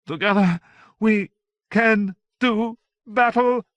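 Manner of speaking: high, loud, slow battle cry; rally the troops with a shout. A narrator's reading. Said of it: "Joan shouted".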